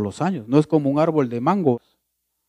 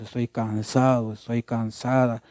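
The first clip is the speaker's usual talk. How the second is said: complaining. Retold or imitated. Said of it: "vivan quejándose y quejándose".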